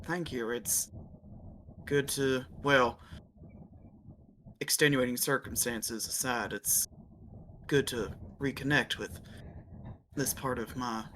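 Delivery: hushed and grateful, a bit formal; lightly voiced character, soft and low; quiet thanks.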